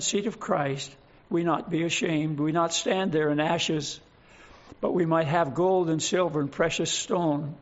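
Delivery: earnest prayer to God, steady and measured. Real, not acted. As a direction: pray it sincerely for the congregation. Opening prayer before the sermon.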